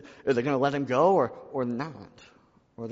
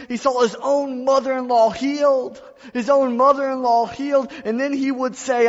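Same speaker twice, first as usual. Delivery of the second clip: much higher, louder preaching at its peak; full-force preaching; 12 semitones higher, 10 dB louder than usual. Acted. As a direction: drive it home to the church. Preaching climax about Peter.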